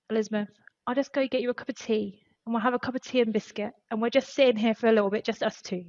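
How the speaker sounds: a quiet, kindly offer of tea to a crying colleague; comforting an upset HR colleague, softly; gentle kind man. Retold or imitated. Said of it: "puts his hand on my shoulder and goes".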